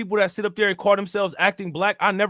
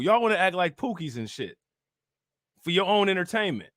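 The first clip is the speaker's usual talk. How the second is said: ordinary talk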